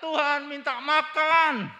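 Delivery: loud, slow, pleading yell for food; mock shouting prayer. Preacher mimicking a believer begging for food, mock yell. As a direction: ham up a desperate shout at God. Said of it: "Tidak perlu kita teriak-teriak".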